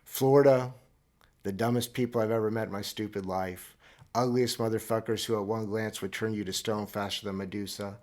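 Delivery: mock outraged rant; Florida bellowed. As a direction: hurl Florida out like a curse, then rant on. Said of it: "so I tweeted this".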